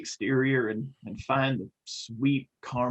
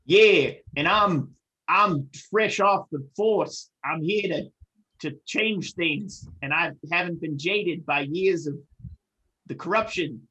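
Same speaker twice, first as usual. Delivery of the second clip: eager rookie cop. Pretend. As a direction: play the fresh-faced idealist. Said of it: "we're a buddy cop".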